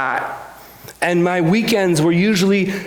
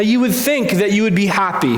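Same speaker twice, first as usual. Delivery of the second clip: ordinary talk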